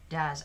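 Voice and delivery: Does said duz, rhyming with fuzz; does rhymes with fuzz. Shown as a demonstration. Teacher models the verb for the class, Does said duz. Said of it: "it rhymes with fuzz".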